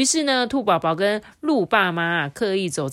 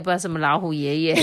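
laughing at slip. Real, not acted. Storyteller slips, laughing.

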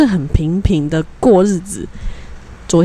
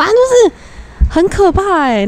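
spooked; 10 semitones higher than usual. Real, not acted. Telling listeners about the haunting, high spooked exclaim. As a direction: squeal how scary it was. Scared retelling.

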